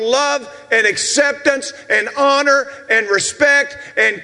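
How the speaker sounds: impassioned pulpit delivery; preaching. Real, not acted. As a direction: preach it out to the whole congregation. Preaches to the congregation.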